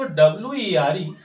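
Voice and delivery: "W E R E" spelled letter by letter; spelling out letters. Shown as a demonstration. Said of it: "इसको हम लोग वर पढ़ते हैं".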